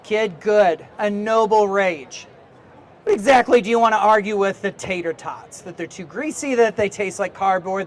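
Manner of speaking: loud curmudgeonly editor prodding a student; Stanley. Acted. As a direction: play a cranky old school newspaper editor pushing a kid. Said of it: "this accent is that has come out of me".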